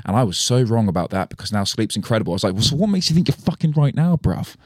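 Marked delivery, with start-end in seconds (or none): 2.5-4.6 mock angry rant. Angry retort to TikTok guy.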